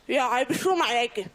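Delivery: slow, stern scolding; slow stern mother. Retold or imitated. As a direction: drag out the scolding. Mother catching child with chocolate.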